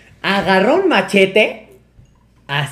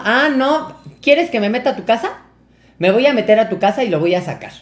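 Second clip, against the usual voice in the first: higher-pitched mock threat; mamá amenazante, imitada; 5 semitones higher than usual. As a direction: threaten like an angry mother. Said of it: "mi mamá estaba bien encabronada". (amenaza de mamá enojada, imitada)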